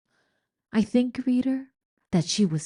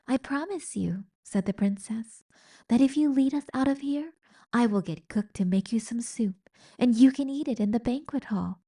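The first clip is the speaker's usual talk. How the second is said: gentle princess; 5 semitones higher than usual. Acted. Princess promises.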